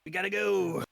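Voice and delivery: high, loud urging to leave; urgent call. Acted. Player hurrying the party to the cart, calling out. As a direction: call out to hurry them along.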